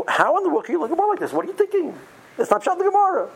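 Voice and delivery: high-pitched heated mock yell; mock yelling at study partner. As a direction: act out challenging your partner hotly. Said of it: "You gotta yell at the Chavrusa".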